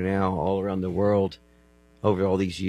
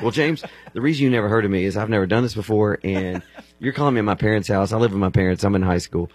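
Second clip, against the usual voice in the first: put-on louder, earnest teenage answer; eager teen reply; 6 dB louder than usual. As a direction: blurt it out like a nervous kid. Teen self answering the caller.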